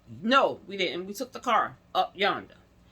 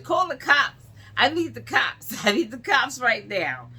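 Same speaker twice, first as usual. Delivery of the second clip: higher and louder, urgent demand; demanding cops; 3 semitones higher, 4 dB louder than usual. Retold or imitated. Demanding staff call the police, higher and louder. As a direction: insist on the cops, rising urgency.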